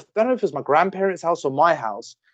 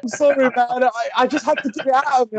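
retold apology; 8 semitones higher than usual. Retold apology of the drunk friend.

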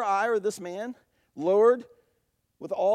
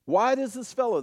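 raised, louder voice of an affronted critic; mildly indignant; 5 semitones higher, 6 dB louder than usual. Acted. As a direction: put on a touch of indignant disbelief. Voicing the teachers' indignant thoughts.

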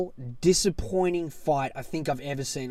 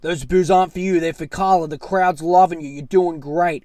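louder, lightly voiced coach pep talk; imitated coach; 7 dB louder than usual. Coaches in her corner, a hint of encouraging pep talk. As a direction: reassure your fighter over the noise. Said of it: "her coaches are telling her".

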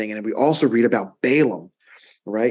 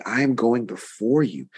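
voicing the Lord. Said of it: "the Lord is saying".

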